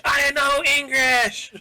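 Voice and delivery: high, slow, hammed-up Russian accent; bad Russian accent. Co-host jokes about a foreign-language review in a hammed-up Russian accent. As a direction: shout it like a cartoon Russian. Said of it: "my worst Russian impression ever".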